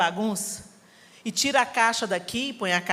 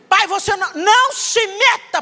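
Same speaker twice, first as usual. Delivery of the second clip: briga com o pai; 7 semitones higher, 5 dB louder than usual. Retold or imitated. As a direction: drag out each word, furious. (filha furiosa, devagar e alto com o pai)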